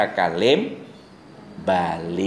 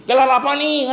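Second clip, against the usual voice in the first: hospital visitor; 13 semitones higher, 3 dB louder than usual. Retold or imitated. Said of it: "Ngomongnya piye?".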